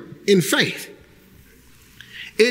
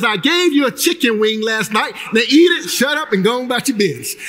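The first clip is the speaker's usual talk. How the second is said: stern scolding. Retold or imitated. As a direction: bark it like a fed-up parent. God scolds.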